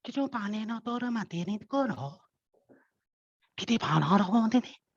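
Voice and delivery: fast invented dwarf babble; quick nonsense chatter of little folk; dwarf language. Acted. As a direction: rattle off a made-up tongue quickly. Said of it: "You cannot understand, so I will have to translate".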